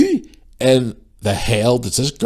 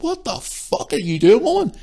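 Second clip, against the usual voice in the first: incredulous outrage; 12 semitones higher than usual. Retold or imitated. Shopper watching the woman tear in, incredulous outrage. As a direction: spell out your disbelief, pitched up. Retelling an argument in store.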